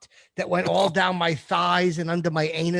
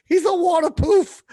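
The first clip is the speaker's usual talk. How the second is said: giggly mock; 13 semitones higher, 5 dB louder than usual. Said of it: "Sounds like I'm describing".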